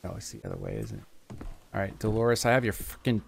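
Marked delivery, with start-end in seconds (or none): 0.0-1.0 deep voice. Pretend. Deep put-on voice aside.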